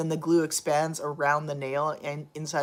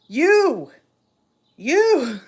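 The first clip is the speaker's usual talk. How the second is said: mock scold; 8 semitones higher, 8 dB louder than usual.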